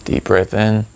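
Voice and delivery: calm breathing cues with long pauses; guided meditation. Acted. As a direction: lead the breath unhurriedly, drawing out "and out".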